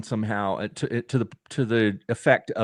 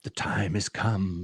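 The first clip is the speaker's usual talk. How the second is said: slow, softer ominous line; ominous horror voice; 3 semitones lower, 6 dB quieter, slower than usual. Retold or imitated. Host mocking an overt horror trailer, mild ominous intoning. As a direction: intone it like a doom-laden villain, lightly. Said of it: "saying, you know, something scary".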